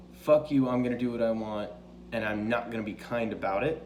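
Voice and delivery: lightly acted self-assured queen; defiant, not bitchy. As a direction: stand your ground without malice. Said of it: "She's not necessarily bitchy".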